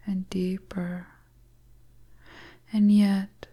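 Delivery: a hint of a teasing witch, whispered; whispering seductress. Stranger luring the lost traveller into her hut, teasing whisper. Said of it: "the beautiful stranger starts to speak".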